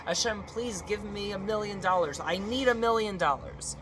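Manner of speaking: high, insistent mock plea; begging. Worshipper asks God for money, mock begging. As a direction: beg with rising pitch and growing force.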